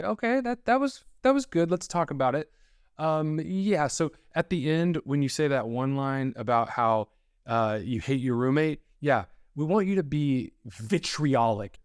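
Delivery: high, slow, sugary casting director; fake-polite notes, sung up high and slow; a syrupy casting director pretending it went well.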